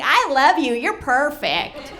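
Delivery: high mock-adoring coo, dragging at the end; put-on loving girlfriend; doting fiancée, imitated. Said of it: "she's like".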